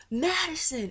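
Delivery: high, swooping call of a name; imitated calling out. Tour guy summoning the star by name, imitated high call. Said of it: "he has the mic with him".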